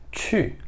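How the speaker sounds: 去 said with a breathy fourth tone; 去 as a soft blown ch-sound falling; Mandarin qù. Shown as a demonstration. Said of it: "O verbo ir é去".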